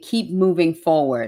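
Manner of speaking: plain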